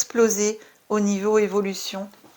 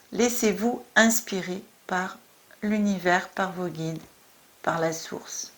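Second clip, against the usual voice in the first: measured, solemn card reading; oracle card reading. Acted. Reader delivers the volcano goddess's message to Scorpio, measured oracle reading.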